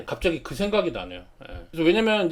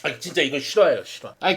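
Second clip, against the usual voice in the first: usual speaking voice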